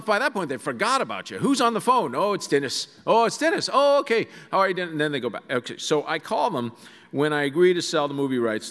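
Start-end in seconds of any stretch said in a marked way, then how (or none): 1.4-4.9 high, loud gushing mom; high excited mom on the phone; mimicking excited mother. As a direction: squeal hello like a delighted mother. Mother greeting son on phone.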